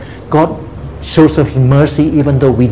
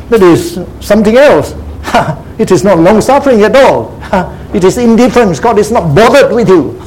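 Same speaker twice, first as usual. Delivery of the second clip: higher pitch, chuckling between phrases; scoffing amusement; 5 semitones higher than usual. Real, not acted. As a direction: laugh off an absurd idea. Scoffing chuckles at absurd idea of indifference.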